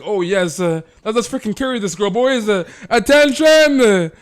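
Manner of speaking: very high, loud, eager callouts; eager gamer guys. Retold or imitated. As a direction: teammates rushing to impress the girl. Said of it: "the guys are like".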